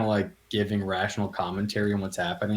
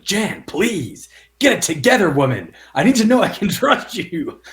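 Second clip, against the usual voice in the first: much higher, louder frantic plea; panicky Steve; 9 semitones higher, 8 dB louder than usual. Retold or imitated. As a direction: beg her in a panic, voice up high. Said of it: "Steve's reaction is like".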